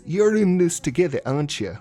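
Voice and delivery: a light Scottish accent, barely put on; lightly mock the heroine in a Scottish accent. Reviewer quoting Zelda in a faint Scottish accent. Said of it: "That's my Scottish accent".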